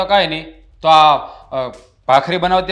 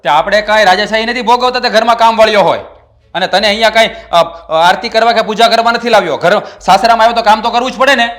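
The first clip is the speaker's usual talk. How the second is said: loud, raised lecturing; husband lecturing wife on housework, angry; angry lecture; 3 semitones higher, 4 dB louder than usual. Acted. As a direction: put her in her place. Husband shouts during quarrel.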